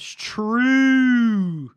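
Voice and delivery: loud, high, long-held TRUE; mock exclamation. Streamer agreeing with chat's rocket worry, hammed-up shout. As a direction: belt it out in exaggerated agreement.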